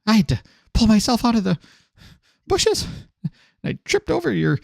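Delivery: shrill-pitched ranting woman; high indignant rant. Acted. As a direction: pile on the complaints, rising high. NPC rants at player.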